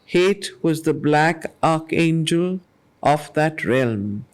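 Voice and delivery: low, slow and solemn verse recitation; grave, deliberate reading of epic verse; poem reading. Acted. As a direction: let each line of the poem weigh heavy. Rereads the passage.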